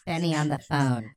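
staccato line reading, word by word. Acted. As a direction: separate the words in a deliberate read. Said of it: "You're so staccato".

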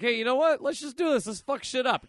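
rowdy rallying yell. Retold or imitated. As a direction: rebels whooping to riot. Freedom fighters rally.

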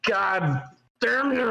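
slow, high-pitched mock-intense swearing; exaggerated, stretched-out exasperation. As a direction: draw the curse out with hammed-up force. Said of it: "that's way more intense".

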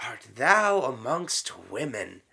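slow, solemn prayer; prayer recitation. Shown as a demonstration. Retelling the Hail Mary slowly. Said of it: "Hail Mary, full of".

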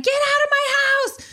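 very high, panicked order; retold panic. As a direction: replay a panicked scream without much volume. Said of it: "And I'm fucking panicking".

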